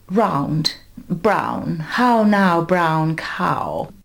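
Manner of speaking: put-on old-school RP elocution demo; Received Pronunciation. Shown as a demonstration. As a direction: round out the vowels in RP, like an elocution drill. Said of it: "trained to speak in that way".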